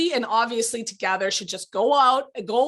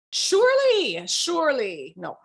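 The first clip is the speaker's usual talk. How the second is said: mock emphatic; 4 semitones higher, 3 dB louder, slower than usual. Shown as a demonstration. Mocking overused word.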